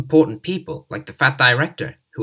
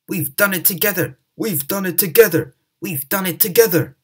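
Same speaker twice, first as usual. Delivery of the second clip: higher, joyful triumphant shout; 7 semitones higher, 4 dB louder than usual. Acted. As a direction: cheer it out in triumph. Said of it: "said Edward and Henry".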